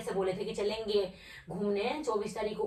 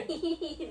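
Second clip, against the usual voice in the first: laughing; 7 semitones higher than usual. Real, not acted. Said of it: "दांत मत फाड़ा करो".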